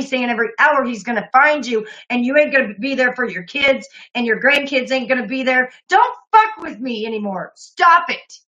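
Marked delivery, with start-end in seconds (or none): 5.9-8.3 angry shout. Real, not acted. Streamer telling the caller to back off, furious shout. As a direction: bark it out to make it end.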